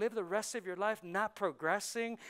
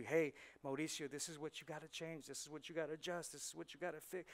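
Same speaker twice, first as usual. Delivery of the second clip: God's voice; 3 semitones lower, 9 dB quieter, faster than usual. Retold or imitated. God voiced speaking to preacher.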